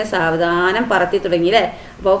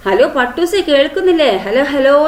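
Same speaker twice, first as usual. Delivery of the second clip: calling out; 5 semitones higher than usual. Acted. Girl calling on phone.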